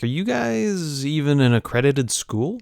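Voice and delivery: drawn-out, doubting question; skeptical question. Retold or imitated. Wolverine questioning Professor X about his school, skeptical. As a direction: stretch it out in mild disbelief.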